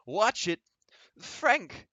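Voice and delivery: high, sharp alarmed call; alarmed cry. Acted. The mother sees her son fall, high alarmed cry. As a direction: cry out as the boy falls.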